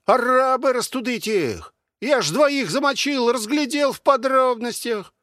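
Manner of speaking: a cocky veteran calling over the wall; soldier behind the wall. Acted. Unseen man behind the wall butting into the argument, brash.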